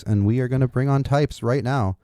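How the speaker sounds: loud radio host voice. Shown as a demonstration. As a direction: announce the guest like a DJ. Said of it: "This is my radio voice".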